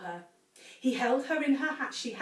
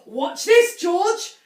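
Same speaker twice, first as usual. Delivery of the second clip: loud, higher gleeful shout; 8 semitones higher, 12 dB louder, much slower than usual. A narrator's reading. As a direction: call out to George. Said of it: "Mister Cranky shouted".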